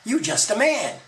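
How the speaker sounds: high, loud cry. Acted. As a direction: call out to him loudly. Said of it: "Kath he cried".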